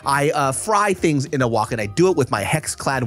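ad read. Acted. Ad read over music.

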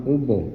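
ਉਭੋ as "oo-bo", long first vowel; long oo then o in ਉਭੋ; careful pronunciation. Shown as a demonstration. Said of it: "ਇਸ ਤਰ੍ਹਾਂ ਉਚਾਰਨ ਕਰਨਾ ਹੈ". (ਉਭੋ ਨੂੰ "ਊਭੋ" ਵਾਂਗ ਬੋਲੋ)

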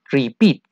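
"repeat" with the accent on -peat; stress on second syllable. Shown as a demonstration. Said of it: "En la segunda". ("repeat" con acento en la segunda sílaba)

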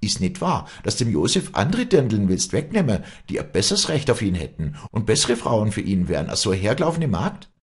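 high, loud tirade; heated cross-examination at high pitch; furious accusation. Acted. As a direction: pile up accusing questions, voice leaping up. Acted quarrel, public accusation.

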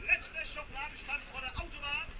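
market crier. Real, not acted.

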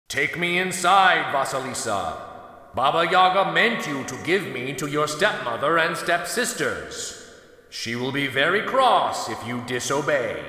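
a touch of a commanding skull; firm, ordering magic skull. Acted. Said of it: "the skull spoke in a commanding voice".

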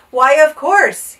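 loud, slow dawning delight; gleeful realization. A narrator's reading. King struck by an idea, gleeful. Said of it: "he began laughing".

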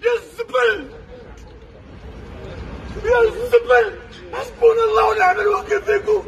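sobbing furious shouts; angry crying. Real, not acted. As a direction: yell your grief and rage. Man burying parents, ranting abroad.

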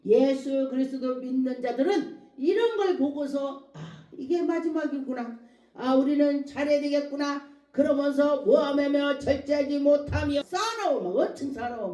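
emphatic sermon delivery; preaching. Real, not acted. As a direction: press the point to a congregation. Preaches with raised voice.

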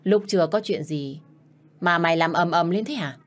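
put-on a mild, irritated snap at the girl; snappish scolding. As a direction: scold her sharply but lightly. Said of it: "bà ta đã gắt gỏng".

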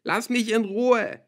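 high, loud, drawn-out yell; tearful scream. A narrator's reading. Crying girl fends off her father, screaming. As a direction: scream to be left alone. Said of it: "schrie ich ihn mit tränenüberströmtem Gesicht an".

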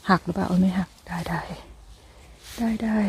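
unvoiced hush while checking the stem; whisper. Real, not acted. Whispering to herself over the mushroom, hushed. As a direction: whisper it to yourself, relieved.

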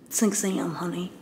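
low, drawled sassy reply, half joking; a playful diva turning the offer down; mock low sassy voice. To Morgan's early workout invite, a mock low sassy voice.

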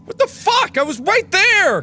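real frustrated rage at the game; furious shout. Real, not acted. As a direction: scream at the game in disbelief. Raging after dying in game.

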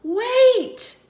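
high, loud cry; wait. Acted. Piggy stops the others, high and loud. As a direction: cut them off sharply. Sudden interruption.

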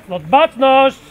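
loud parade command; drill sergeant. Real, not acted. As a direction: snap the call to attention. Komenda musztry na apelu. (głośna komenda musztry)

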